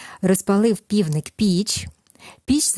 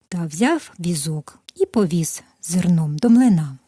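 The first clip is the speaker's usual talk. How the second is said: gentle storyteller voice, lively at the quotes; reading a fairy tale to children. Acted. Narrator reads the tale to toddlers, gentle storytelling. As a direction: tell it like a bedtime tale for little ones.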